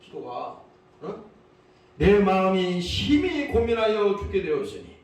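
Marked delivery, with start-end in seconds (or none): 2.0-4.9 restrained cry of anguish, pressed out forcefully. Acted. Jesus tells disciples of his deathly grief, anguished cry. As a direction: cry out the grief in a solemn prayer voice. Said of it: "절규입니다".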